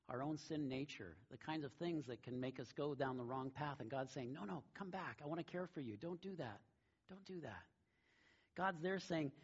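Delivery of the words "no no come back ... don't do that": soft, slightly raised, tender urging; gentle plea. Acted. God calling us back from the wrong path, gentle plea. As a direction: softly call someone back from harm.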